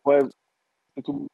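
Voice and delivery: crackly, cutting-out mic; words breaking up over bad line; clipping distorted mic. Real, not acted. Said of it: "je crois que ça coupe un peu".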